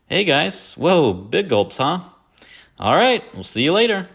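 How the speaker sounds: high, loud, slowed cheery doofus voice; hammed-up high chirpy hello; goofy greeting. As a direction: call out like an overeager dork. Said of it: "and he says".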